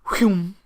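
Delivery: arrow whoosh. Retold or imitated. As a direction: voice an arrow zipping past. Imitating an arrow flying past.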